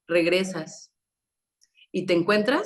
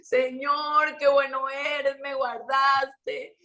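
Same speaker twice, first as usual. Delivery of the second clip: higher, drawn-out grateful cry to God; imitating tearful prayer; 5 semitones higher, much slower than usual. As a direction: act out a weeping woman thanking God, stretching the last words. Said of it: "Llorando todo el camino". (oración llorosa imitada, más aguda y lenta)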